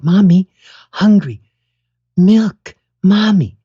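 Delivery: put-on high, loud little-kid voice; a toddler calling for milk. Baby begging mom for milk, high and loud. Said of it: "you tried to sound like your mom and you're like".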